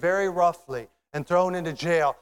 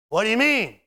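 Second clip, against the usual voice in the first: louder, higher baffled question; puzzled surprise; 6 semitones higher, 7 dB louder than usual. Acted. Tom answering a stranger in heaven, puzzled surprise. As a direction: ask it with a sharp swoop of surprise.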